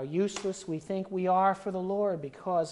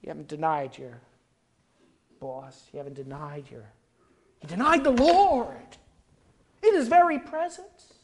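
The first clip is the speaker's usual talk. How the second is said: weeping self-reproach; 10 semitones higher, 11 dB louder than usual. Retold or imitated. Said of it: "he went out of there weeping, crying".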